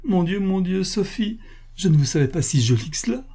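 high-pitched artless wonder; naive exclamation. A narrator's reading. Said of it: "s'écria naïvement".

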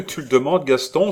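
high, loud rapturous cry; exclaiming with enthusiasm. A narrator's reading. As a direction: cry out, lifted with joy. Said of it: "s'écria Hélène".

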